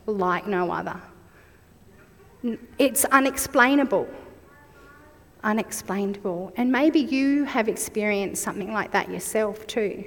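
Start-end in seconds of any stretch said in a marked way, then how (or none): 5.4-6.5 soft echo. Shown as a demonstration. Preacher softly echoes her key word to the congregation, hushed. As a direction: let Unexplainable fall away quietly. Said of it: "repeated after first take".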